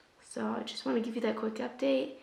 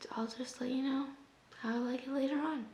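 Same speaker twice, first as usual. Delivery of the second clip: losing voice; 3 semitones higher, 7 dB quieter than usual. Real, not acted. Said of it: "I'm losing my voice again".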